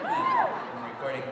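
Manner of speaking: very high, slow, squeaky aside; mock squeaky voice. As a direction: squeak it out like a broken voice. Mimics high voice in booth.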